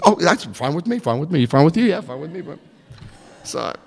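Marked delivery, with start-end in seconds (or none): 0.0-2.6 Three Stooges bit. Retold or imitated. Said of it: "like the Three Stooges".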